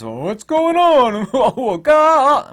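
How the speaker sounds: high, loud and slow bewildered voice; clueless NPC voice. Retold or imitated. Oblivious people wondering what happens, high and dopey. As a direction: drag it out like a dazed yokel.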